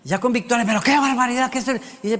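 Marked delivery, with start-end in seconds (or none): 0.6-1.7 quick, indignant dad; lightly voiced outraged dad; jumping to conclusions. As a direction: rattle it off as a hasty father. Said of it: "yo salto a conclusiones".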